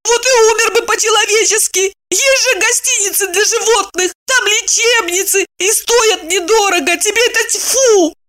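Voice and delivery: high weeping woman; tearful insistence. A narrator's reading. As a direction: throw his word back through tears. Wife arguing tearfully.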